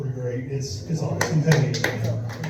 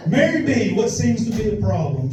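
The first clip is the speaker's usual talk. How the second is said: hammed-up Ron; 4 semitones higher than usual. Shown as a demonstration. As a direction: play it up as a cheesy porn repairman. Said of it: "repeats the line, marked".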